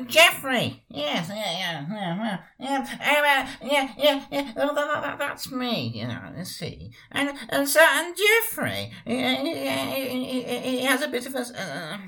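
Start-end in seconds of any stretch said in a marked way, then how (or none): 0.1-0.8 calling out. Acted. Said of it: "let's go and get him now". 4.6-12.0 put-on high stuttering old chap; a high, stuttering old chap's voice; Jeffrey. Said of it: "he goes by the name of, um, Jeffrey".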